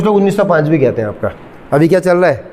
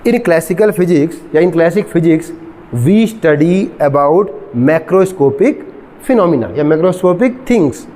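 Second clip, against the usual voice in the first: very slow, drawn-out definition; slow dictation; much slower than usual. Shown as a demonstration. Teacher defining classical physics for students, slow dictation. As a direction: stretch the words out for note-takers.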